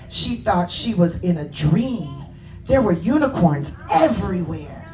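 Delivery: animated storybook reading with lifted key words; children's story narration. A narrator's reading. Author reading Layla's story to children, animated narration. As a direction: read it to children, expressively. Reads own book to children.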